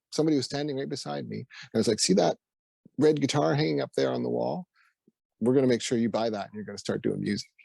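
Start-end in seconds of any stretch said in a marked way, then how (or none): 2.0-7.5 spirit guide voice. Retold or imitated. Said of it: "as if a voice".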